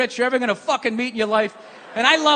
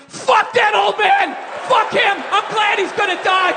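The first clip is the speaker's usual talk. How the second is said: mock crowd yelling; 4 semitones higher than usual. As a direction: play the heckling crowd cheering his death. Mocking the cheering crowd.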